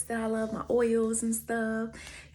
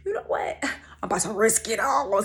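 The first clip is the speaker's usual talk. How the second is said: whispering; 3 semitones higher, 4 dB louder than usual. Retold or imitated. Thinking aloud, risky decision.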